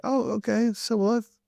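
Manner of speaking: high put-on voice saying sibboleth with s; s for sh in shibboleth; mispronounced shibboleth. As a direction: innocent Ephraimite says s not sh. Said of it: "it would come out s".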